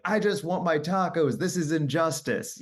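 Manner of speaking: a lightly hammed-up petulant tantrum; whiny self-imitation. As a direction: whine like a cranky kid denied tacos. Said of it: "And I'm like".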